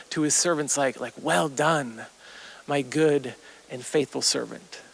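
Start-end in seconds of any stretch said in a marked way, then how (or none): 1.2-4.8 slower, lower words of approval; gentle commendation. Acted. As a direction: commend a faithful servant, gently and unhurriedly. Jesus voiced commending his servants.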